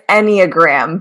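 "Enneagram" as EN-ee-uh-gram; corrected pronunciation. Shown as a demonstration. Host correcting a guest's attempt, "Enneagram" said EN-ee-uh-gram. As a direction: give "Enneagram" four syllables, with EE after EN. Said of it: "good shot, good shot. It's".

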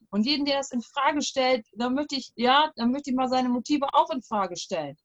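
a hint of an indignant grandfather; grumpy old man. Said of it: "Ich mach mal den ganzen Opa".

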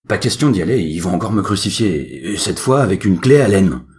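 whiny shouting. Acted. Son refuses loudly.

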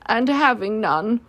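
slow, mildly mournful; sad Pooh. Acted. Pooh having no honey, slow and a little sad. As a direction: trail the thought out slowly with a touch of sorrow. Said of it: "said Pooh sadly".

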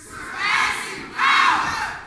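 "power" hit hard on its P, drawn out slow; Pentecostal emphasis on the P. Shown as a demonstration. Pastor leading the congregation, slow with a punched P. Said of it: "really put some emphasis on the P".

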